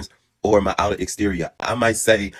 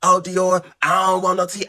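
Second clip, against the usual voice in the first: meek woman's voice; 8 semitones higher, slower than usual. Retold or imitated. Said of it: "So she like".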